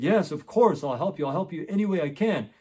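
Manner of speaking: mildly excited, emphatic offer of help; excited retelling. Retold or imitated. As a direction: jump in keenly, imitating a thrilled dad. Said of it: "his dad was so excited".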